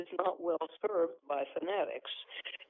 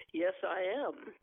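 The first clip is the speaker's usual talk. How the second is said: put-on Eastern accent; slower than usual. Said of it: "affecting my Eastern accent".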